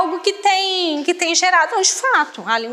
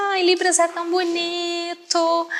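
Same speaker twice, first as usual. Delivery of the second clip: mock-gushing, higher and soft; gushing admiration; 4 semitones higher, 3 dB quieter than usual. Imitating people who find sign language cute, gushing. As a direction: coo it like an admirer.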